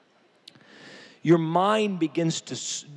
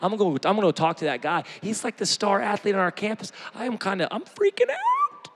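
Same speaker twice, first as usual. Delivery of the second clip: nervous student; 4 semitones higher than usual. Pretend. Campus student scared to talk to the star athlete, squeaky nervous. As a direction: play a student losing his nerve. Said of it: "You should be like".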